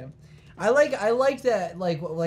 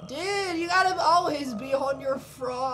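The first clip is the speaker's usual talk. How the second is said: vocal fry; 6 semitones higher, slower than usual. Shown as a demonstration. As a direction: drag the words in a creak. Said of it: "I know you got the vocal fry".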